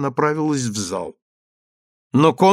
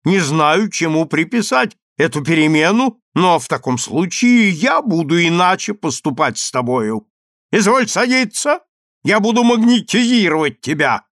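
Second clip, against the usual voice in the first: louder, rising stern order; angry; 4 semitones higher, 4 dB louder than usual. Acted. Consul ordering his wife to sit, growing anger. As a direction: lay down the law, climbing in anger. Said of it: "сказал сердито консул".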